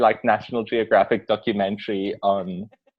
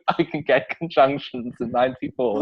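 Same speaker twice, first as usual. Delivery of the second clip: Whoopi Goldberg impression; 2 semitones higher than usual. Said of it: "She just left out all conjunctions and was like".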